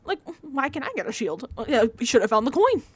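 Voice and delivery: mocking Michael. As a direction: whine it like the annoying player. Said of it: "So he's standing there with Jam Jam like".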